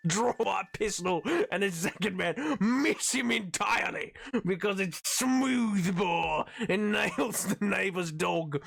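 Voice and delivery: theatrical storyteller, drawing out the big words; hammed-up dramatic reading. Streamer reads musket home-defense story to chat, hammed-up dramatic reading. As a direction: declaim it slowly with mock gravity.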